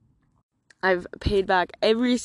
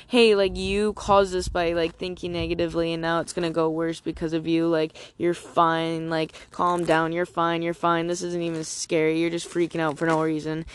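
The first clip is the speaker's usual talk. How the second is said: mildly imitating a brushing-off friend; dismissive mock friends. Friends telling a scared traveller to calm down, mildly dismissive. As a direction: lightly mimic friends waving her worry away. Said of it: "not in a calm down".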